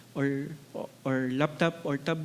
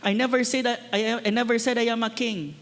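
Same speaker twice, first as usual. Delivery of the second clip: higher, insistent denial, punching each "never"; defensive protest; 4 semitones higher than usual. Retold or imitated. Preacher imagining an ordinary accused man defending himself, indignant. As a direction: protest your innocence to the governor. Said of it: "he would have defended himself".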